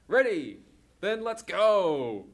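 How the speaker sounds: rally the crew to set off; excited cheer. Acted. Kids cheering as the van sets off, excited.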